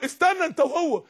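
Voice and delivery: peremptory call to wait; commanding divine order. Acted. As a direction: stop the condemned with a sharp command. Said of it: "ده بيقول للي بيترموا في النار".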